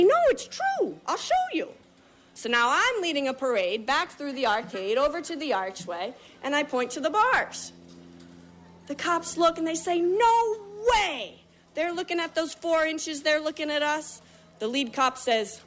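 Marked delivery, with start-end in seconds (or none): 0.0-1.7 much higher, eager protest; eager insisting. Retold or imitated. Student insisting to doubtful police, much higher and eager. 10.0-11.4 much higher, disbelieving exclamation; can't believe their eyes; amazed cops. Retold or imitated. Police staring at the four-inch gap, amazed and much higher.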